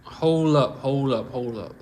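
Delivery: stunned murmur trailing off; hold up, fading. Real, not acted. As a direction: let it die away in disbelief. Rereads shocking line in disbelief.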